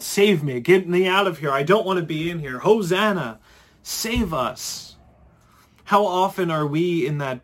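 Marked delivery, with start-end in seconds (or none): 0.0-4.9 mock panicked yell. Tourist dangling over the drop, mock yelling for help. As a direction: ham up a terrified man begging to get out. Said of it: "would have yelled out".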